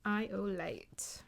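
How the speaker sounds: slow, hushed whisper; slow whispered channeling; channeled whisper. Shown as a demonstration. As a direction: breathe the message out slowly. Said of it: "This is what I channeled".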